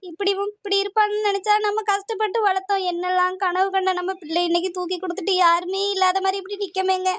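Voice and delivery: grieving, crying wife; tearful lament. Acted. Wife mourning her son to her husband, tearful. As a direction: lament through tears for a lost child. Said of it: "அழுதுட்டு கிடக்க".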